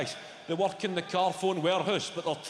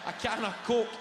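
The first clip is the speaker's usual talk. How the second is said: higher, shouty rant; 4 semitones higher than usual. Real, not acted. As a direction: build the junk food list with glee. Ranting list of junk food.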